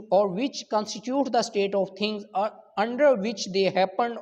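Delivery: reading the law word by word, very slowly; measured legal reading; slow statute reading. Acted. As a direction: dictate the section slowly for notes. Reads article twenty aloud.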